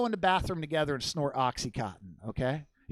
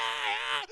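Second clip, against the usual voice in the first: mock wail; 6 semitones lower, 4 dB quieter than usual. Shown as a demonstration. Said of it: "ah, like that".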